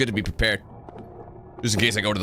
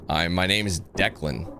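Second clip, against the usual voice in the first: put-on American accent; 6 semitones lower than usual. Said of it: "when we say it as North Americaners".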